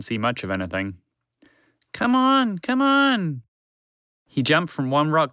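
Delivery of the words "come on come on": high squeaky mouse voice, urgent; a tiny mouse urging himself on; frantic mouse. Acted. Mouse urging himself through the rubble, high and frantic.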